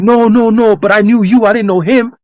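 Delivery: high-pitched pleading denial; imitated desperate protest. Ex begging to be taken back, mock desperate protest. Ex pleads her case in retold dream.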